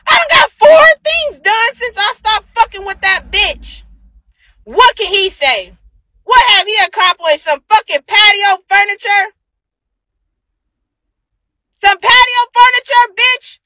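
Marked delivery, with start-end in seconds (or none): 0.1-3.8 heated boast. Real, not acted. Bragging about upgrades, heated. 11.7-13.6 scornful mockery. Real, not acted. Mocking his patio furniture.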